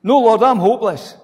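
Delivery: hammed-up excuse to God; reluctant believer. Believer telling God he's hopeless, mock plea. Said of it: "We actually say to God".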